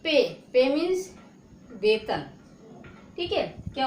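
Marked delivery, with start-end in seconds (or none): 0.0-0.2 "पे" with the e held slightly long; long e vowel. Shown as a demonstration. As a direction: stretch "पे" a little. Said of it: "लंबा खिंचता है". ("पे" को थोड़ा लंबा करके)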